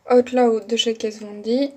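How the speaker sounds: brand name said in a rough French-tinged English accent; self-mocking English accent on the lipstick name; clumsy English accent. Real, not acted. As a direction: try an English accent and miss a little. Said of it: "Désolée pour mon accent anglais bien merdique".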